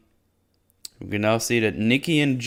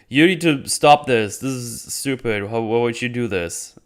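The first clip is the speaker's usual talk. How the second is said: mock-indignant demand, pitched up; indignant confrontation; 3 semitones higher, 4 dB louder than usual. Jennifer confronts Titania at her meet and greet, indignant.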